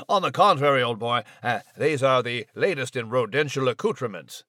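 a hint of a snooty dandy explaining fashion; Nigel the posh mouse. Mouse defends his new whiskers to the announcer, mildly pompous. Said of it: "are you a high-fashion mouse".

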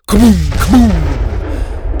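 loud, explosive exclamation; booming cannon blasts. Acted. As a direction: boom it out like cannon fire. Narrator voices sudden cannon fire.

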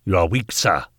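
forceful, contemptuous accusation; angry rebuke. Acted. Knight rebuking the workhouse master, angry. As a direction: hit WEAK hard.

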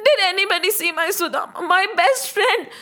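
mildly acted tearful search; understated, distressed asking; tearful pleading. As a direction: plead with a touch of tears. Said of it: "Krishna was crying".

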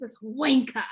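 WANKER in a British accent, final r dropped. Shown as a demonstration. Host showing off a favorite British word, British accent. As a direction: say wanker the British way, ending in an open "ah". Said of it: "when you've got the British accent".

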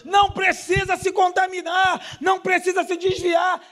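high, urgent preaching voice; fervent exhortation to the congregation; full-force preaching. Real, not acted.

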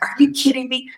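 high, incredulous "Are you kidding me?". Retold or imitated. Retelling the missionary news to the host, incredulous. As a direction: toss it up in disbelief. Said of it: "I'm like".

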